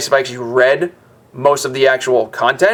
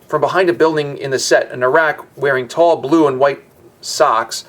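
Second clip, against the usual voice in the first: story narration; 3 semitones higher than usual. A narrator's reading. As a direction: present the play like a storyteller.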